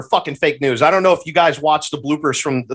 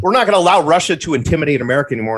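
mocking Biden's tough talk; much faster than usual. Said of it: "Biden ... he says".

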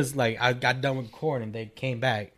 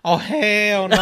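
laughing disbelief; 7 semitones higher, 6 dB louder, much slower than usual. Retold or imitated. Retold shock seeing best man.

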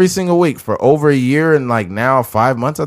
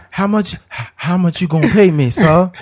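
mock slave; 6 semitones higher than usual. Slave reply bit.

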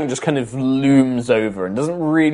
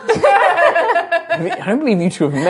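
high sly voice; 3 dB louder, slower than usual. Acted. New character greeting.

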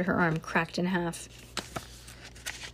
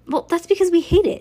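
high, loud, fast retort; quick, heated comeback; defensive protest; 10 semitones higher, 6 dB louder, faster than usual. A narrator's reading. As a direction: argue back hotly in a high voice. Bean argues back.

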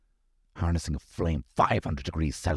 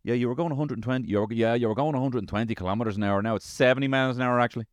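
Google Maps voice; 4 semitones higher than usual. Retold or imitated. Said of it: "Starts telling me".

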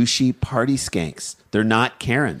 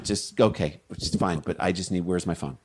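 dismissive, trailing to a mutter; distracted brush-off; 3 semitones lower than usual. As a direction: wave them off, still hunting.

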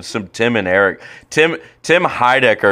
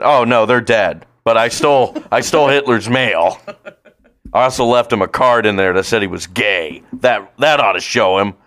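louder, proud mock boasting; goofy Nick character; 4 semitones higher, 5 dB louder than usual. Friend voicing Nick in a war-movie parody, mock proud. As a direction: brag cheerfully, hammed-up. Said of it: "Nick had a deleted scene".

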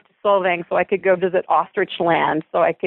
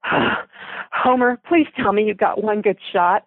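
shaky, near-tearful plea; a touch of wavering, worn-out voice; wavery and weak; 2 semitones higher, slower than usual. Acted. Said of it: "my voice wavery and weak".

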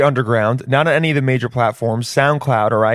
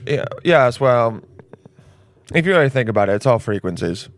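lightly voiced know-it-all; super smart person. Genius explaining to everyone, mild know-it-all voice. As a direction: lay it out like it's obvious. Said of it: "a super smart person just talking like that".

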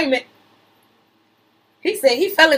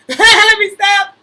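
slow, louder, laughing through it; can't stop laughing; 7 semitones higher, 7 dB louder, much slower than usual. Real, not acted.

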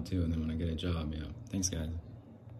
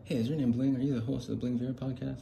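excited fan; 6 semitones higher, faster than usual. Pretend. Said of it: "you guys can record it and say".

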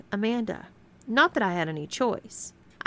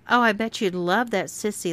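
mocking taunt, slightly raised; laughing taunt; 3 semitones higher than usual. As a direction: sneer at her with a grin. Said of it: "laughed Karen".

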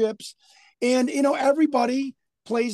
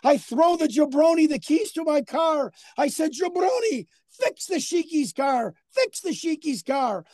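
Iron Sheik impression; 5 semitones higher than usual. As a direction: wail it like a distraught Iron Sheik, shouting Jabroni. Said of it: "And he goes".

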